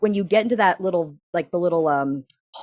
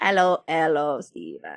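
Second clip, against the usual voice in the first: small alien creature voice with swooping pitch; 3 semitones lower, 4 dB quieter than usual. Retelling a scene where E.T. comes down and greets Steven, E.T. impression. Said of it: "My my E T impression is much better".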